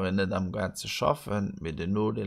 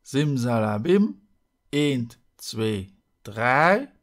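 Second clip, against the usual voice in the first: loud showy magic spell; kids party magician; 5 semitones higher, 10 dB louder, slower than usual. Pretend. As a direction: call out the spell like a stage magician. Magic spell incantation, playful.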